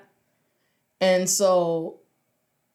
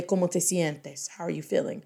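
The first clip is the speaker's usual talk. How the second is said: tender concern; 3 semitones lower, 6 dB quieter than usual. Pretend. Intimate friend asking tenderly.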